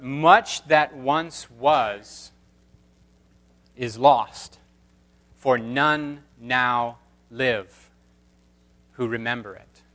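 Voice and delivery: put-on very slow, grave British accent; a touch of a British accent, slowed right down. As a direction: draw it out solemnly in a British accent. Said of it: "And then she goes on".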